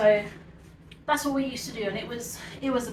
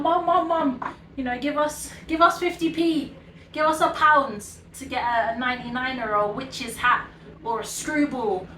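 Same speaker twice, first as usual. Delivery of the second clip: raised begging call to mum upstairs. Retold or imitated. Kids calling up to mum for ice cream money, raised begging voice. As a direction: shout up pleading for money. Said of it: "we were calling out".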